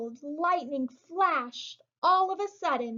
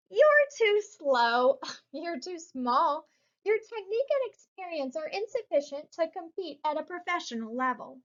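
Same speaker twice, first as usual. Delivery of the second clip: lightly mocking. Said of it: "The brothers laughed".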